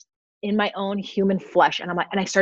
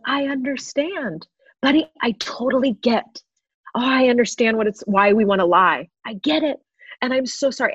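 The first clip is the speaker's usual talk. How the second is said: higher-pitched, mildly tearful reassurance; retold tearful empathy; 4 semitones higher than usual. Mother to her little boy after his tantrum, retold tearful empathy. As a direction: retell comforting words as if through tears. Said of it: "I'm doing this through tears".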